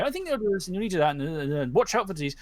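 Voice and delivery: lightly voiced old handyman rambling on; rambling Albert. Albert giving care advice, rambling on. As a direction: keep talking, half to yourself. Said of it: "rambling away".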